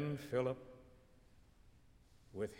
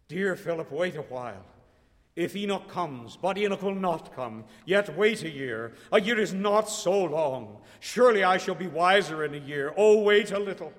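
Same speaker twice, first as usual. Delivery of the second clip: rising, louder frightened begging; scared pleading building louder; scared plea; 4 semitones higher, 9 dB louder than usual. A narrator's reading. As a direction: beg him to wait, growing alarmed. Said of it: "she cried, scared as it were".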